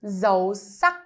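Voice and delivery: dấu sắc said with a rising tone. Shown as a demonstration. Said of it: "the first one called".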